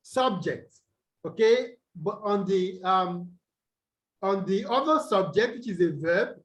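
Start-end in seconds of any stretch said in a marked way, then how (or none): 0.0-0.7 subject, first syllable SUB stressed; SUB-ject, the noun form. Shown as a demonstration. Teacher recaps the noun for the class, first-syllable stress. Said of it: "on the first syllable in". 5.1-5.6 subject, second syllable JECT stressed; sub-JECT, the verb form. Shown as a demonstration. Teacher contrasts the verb for the class, second-syllable stress. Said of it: "stress on the second syllable".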